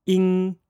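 "ing" held high and level; first tone ing. Shown as a demonstration. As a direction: sustain "ing" on a high flat pitch. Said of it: "put the first tone on it".

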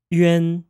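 "yuan" as one syllable, glide into a nasal en; teacher models "yuan" clearly; Mandarin final yuan. Shown as a demonstration. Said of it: "Let's say that again".

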